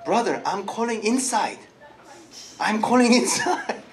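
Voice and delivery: mock inward calling. Shown as a demonstration. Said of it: "That's not calling. You are meditating".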